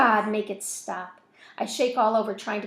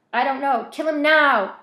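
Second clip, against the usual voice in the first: loud, higher urgent shout; 5 semitones higher, 11 dB louder than usual. A narrator's reading. Voices shout.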